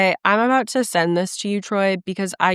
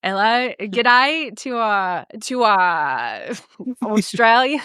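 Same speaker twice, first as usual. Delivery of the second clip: put-on halting stab at an Aussie accent; half-hearted Australian greeting; attempted Australian accent; 2 semitones higher, slower than usual. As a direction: fumble for an Australian accent, breaking into a laugh. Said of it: "I can't get in the flow".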